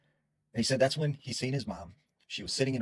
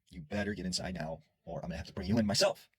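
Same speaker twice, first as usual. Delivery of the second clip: understated stern warning. Retold or imitated. Boy orders his brother out of the shed, mildly stern. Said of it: "he says very sternly to his brother".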